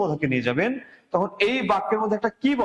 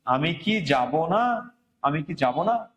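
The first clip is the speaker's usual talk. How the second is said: slow questioning; 2 semitones lower, much slower than usual. Shown as a demonstration. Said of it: "তাহলে বলছে কি".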